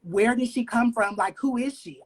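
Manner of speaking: imitating their own intrigued, eager questioning; retold excited curiosity. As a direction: ask it as a mildly excited retelling. Retold excited reaction on first meeting her.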